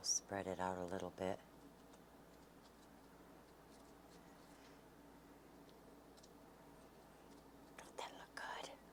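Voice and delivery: quiet whispering. Spreading frosting on a cake and showing it, whispering. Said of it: "Why am I whispering?".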